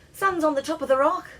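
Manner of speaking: high, loud shout across the field; loud call. A narrator's reading. Scottish player calling out the sun's position, loud and high. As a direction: keep calling it out. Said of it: "one of the Scottish team cried".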